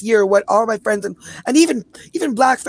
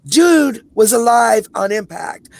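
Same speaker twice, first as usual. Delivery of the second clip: slow, loud and pointed; slowed-down indignant outburst; outraged emphasis; 4 dB louder, slower than usual. Real, not acted. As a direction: hammer home each word in disbelief. Outraged reveal of the truth.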